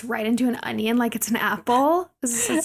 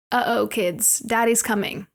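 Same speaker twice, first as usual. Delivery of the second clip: redneck dad voice. Retold or imitated. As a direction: play a swaggering country dad, half joking. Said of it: "my redneck dad voice".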